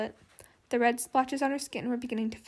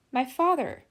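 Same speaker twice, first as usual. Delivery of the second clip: sighed; 8 dB louder than usual. A narrator's reading. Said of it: "she sighed".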